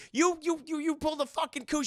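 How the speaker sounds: high, stammering shocked accusation. Acted. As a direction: stammer out the realization. Accusing Amelia after reveal.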